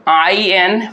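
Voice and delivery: slow spelling in syllable groups; letters spaced out slowly, with long gaps. Shown as a demonstration. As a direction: break the word into spelled syllables, pausing between them. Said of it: "तोड़ते हैं किस तरह से".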